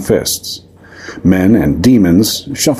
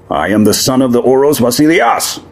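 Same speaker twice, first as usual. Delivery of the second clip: demon roar; 6 semitones higher than usual. Acted. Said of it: "Timos roared".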